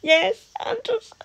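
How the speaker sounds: whispered high and breathy, like a secret; mock whisper. Revealing the Anderson code to viewers in a conspiratorial whisper. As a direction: hush it like a big revelation.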